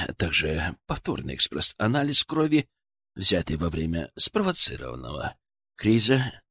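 quiet, low, faltering report; nervous. A narrator's reading. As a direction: push through with nervous hesitation. Nervous doctor admits defeat.

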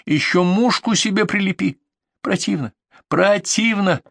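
high-pitched, indignant scolding; angry outburst. Acted. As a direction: lay into him with mounting disgust. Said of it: "От злости у меня сорвался голос". (злобно, срываясь на высокий голос)

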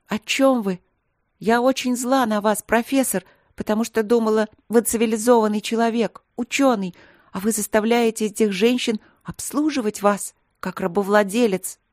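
high, loud indignant outburst; a furious girl berating her professor; angry. Acted. Furious princess accuses professor.

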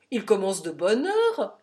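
loud, jovial amusement; great good humour. A narrator's reading. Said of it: "de la meilleure humeur du monde". (avec une franche bonne humeur)

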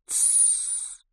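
very soft voiceless shush; whispered shush. A narrator's reading. Mary hushing the screeching Ricky, whispered. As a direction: hush someone in a whisper. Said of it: "прошептала Мэри".

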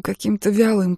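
plain reading voice

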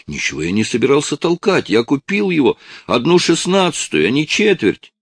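panicked protest. Acted. Boy protests desperately.

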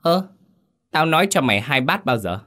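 a mildly voiced cruel mistress; feigned innocence. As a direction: play dumb, cold. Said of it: "giọng tỉnh bơ".

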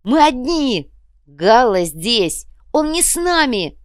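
high, loud hysterical shouting; yelling. A narrator's reading. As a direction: cry it out in short desperate bursts. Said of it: "а Павел начал орать".

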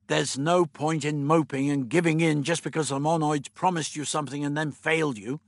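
mild irritation; brisk, understated rebuke; snapped. Acted. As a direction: scold with a touch of impatience. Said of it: "Stephen snapped".

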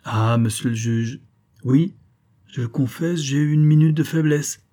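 forceful pleading outburst; vehement. Acted. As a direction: press the judge hard with it. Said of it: "Alors véhément".

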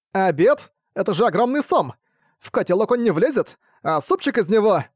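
high, puzzled servant voice; confused vampire servant. Acted.

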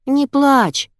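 put-on high loud call to a crying child; yelling. Masha yelling to comfort the girl. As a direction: shout over the crying. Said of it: "завопила появившаяся мигом Машка".

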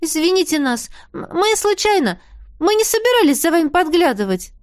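high, stammering embarrassed squeak. A narrator's reading. Савина apologizes for peeping, high embarrassed squeak. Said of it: "сконфуженно пропищала Савина".

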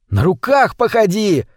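high, lightly squealed delight. A narrator's reading. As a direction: egg him on in mild high glee. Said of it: "визжал от восторга Витя". (восторженный, негромкий визг)

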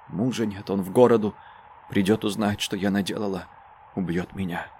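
hoarse fearful murmur. A narrator's reading. Mother dreading her husband, soft and low. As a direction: murmur it in fear. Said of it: "хриплый голос".

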